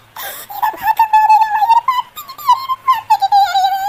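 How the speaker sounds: anguished cry. Acted. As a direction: cry out that her gut burns. Mother burning with grief.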